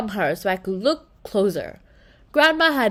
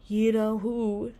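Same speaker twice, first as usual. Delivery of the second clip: softer, slow, secretive; lowered voice; 5 dB quieter, slower than usual. A narrator's reading. Claire hiding the secret from the parents, lowered voice. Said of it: "then lowered her voice".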